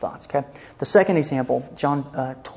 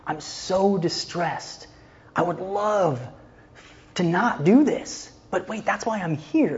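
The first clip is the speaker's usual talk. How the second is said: higher, slow anguished pleading; distressed struggle; 5 semitones higher, slower than usual. Retold or imitated. Jesus torn before his disciples, higher and anguished. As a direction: wrestle it out loud, torn and pained. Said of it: "wrestling match out loud".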